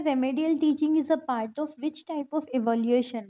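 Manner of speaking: very slow, deliberate reading aloud; slow question reading. Acted. Teacher reading an exam question to students, very slowly. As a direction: read the question word by word.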